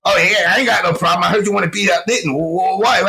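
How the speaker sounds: fast stuttering impression; Arturo Sanchez. Stutterer backing off from trouble, hurried imitated stammer. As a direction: rush it out, then stammer on the last word. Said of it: "a little bit of a stutter".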